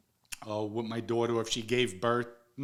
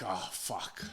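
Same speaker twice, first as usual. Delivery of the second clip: dismayed reaction; 5 semitones lower, 8 dB quieter than usual. Retold or imitated. Dismayed reaction in retold story.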